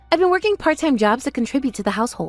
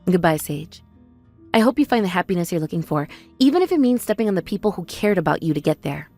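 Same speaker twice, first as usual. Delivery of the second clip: bitter farewell; 4 semitones lower than usual. Acted.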